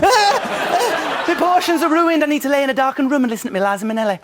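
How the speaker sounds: high, fast dramatic wail; camp mock distress. Mocking Anthony fretting over the rice, a high camp wail. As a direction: play it like a drama queen.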